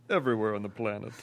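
Al Gore line breaking into laughter; laughing through the impression. Shown as a demonstration. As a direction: laugh while still in character. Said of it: "singles bar Al Gore impression".

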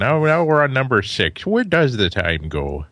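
nostalgic put-on Minnesota accent, slowing at the end; drifting Maine-Minnesota accent. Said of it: "Your guy is moving from Maine to Minnesota there".

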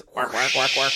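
honking quark like a penguin; playful penguin squawk; penguin noises. Pretend. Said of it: "I've been practicing my penguin noises".

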